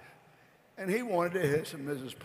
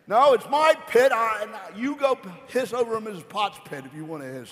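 scolding mother; 3 semitones higher, 4 dB louder than usual. Acted. Mother voiced scolding son.

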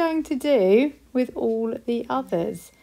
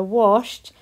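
washed said louder, set apart; emphasis on washed; 4 dB louder than usual. Shown as a demonstration. Teacher pointing out the spelling of washed. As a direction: lean on the word washed. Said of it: "And remember".

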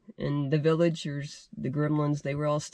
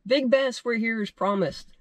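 lightly called out; 5 semitones higher than usual. Acted. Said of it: "Panko called out".

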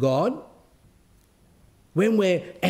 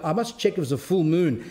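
chuckling through the joke; laughing; 3 semitones higher than usual. Real, not acted. Preacher joking about the howling woman, laughing. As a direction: let the laugh come through the words.

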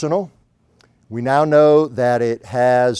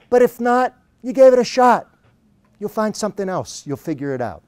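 high, upbeat imitation of an Australian; cheery Australian accent; 7 semitones higher than usual. Coach consoles his client about failing, cheery Australian accent. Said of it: "in his annoyingly cheery Australian accent".

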